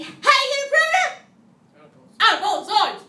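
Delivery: high, loud sing-song call; weird voice. Shown as a demonstration. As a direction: shout the question back at them. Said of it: "We say it in a weird voice".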